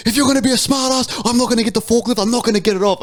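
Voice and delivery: high-pitched mock tantrum; acted-out petulant refusal; imitated angry worker. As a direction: rant like a worked-up warehouse worker. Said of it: "he's getting angrier and angrier".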